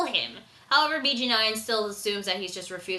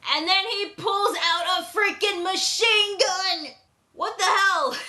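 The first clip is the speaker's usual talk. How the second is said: surprised; 8 semitones higher, 3 dB louder than usual. Real, not acted. Shocked by the machine gun.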